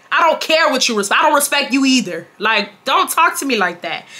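emphatic, indignant dressing-down; indignant retort. Retold or imitated. Speaker retorting to Legion over his talk of respect, indignant. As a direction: tell him off with stretched, stressed words.

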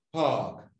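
PARK with a long, open "aah"; sonido largo. Shown as a demonstration. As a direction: draw out the vowel in PARK. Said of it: "¿Cuál es corto y cuál es largo?". (PARK con A larga)

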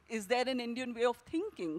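"thinking" stressed with a falling close. Shown as a demonstration. Author demonstrating the actors' exercise, stress on "thinking". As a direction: save the weight for "thinking". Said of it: "a commonplace line with emphasis on different words".

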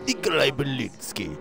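lightly voiced game character; character name in accent.

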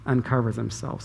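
mocking, scornful read of Michal's words; dripping sarcasm. Michal ridiculing David for dancing, dripping with sarcasm. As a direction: sneer the praise so it means the opposite. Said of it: "it's just dripping with sarcasm".

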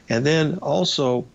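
hoarse, raspy speaking voice; talking through a raspy throat. Real, not acted. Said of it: "excuse me f-, for the raspy voice".

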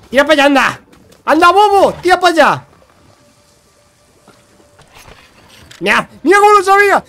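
loud, high-pitched protest; real high, indignant yell; exasperated yelling. Real, not acted. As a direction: shout the pest away. Yelling at an attacking creature.

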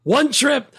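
high and slow, lightly mocking pride; proud bellhop boast. Bellhop bragging to the guests, slow and proud. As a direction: spell out the count like a proud boast.

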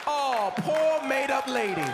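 slow, loud sarcastic pity; drawn-out fake sympathy; mock pity. Mocking pity from crowd.

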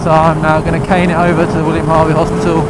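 loud over wind noise; shouting over wind. Real, not acted. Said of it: "don't know if you can hear me over the wind noise".

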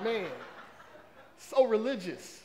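amused, half-laughing tease. Retold or imitated. To the congregation about his religious nephew, laughing. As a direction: chuckle through the words.

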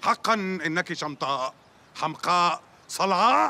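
slow, theatrical classical insults; formal standard arabic. Acted. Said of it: "العربية الفصحى".

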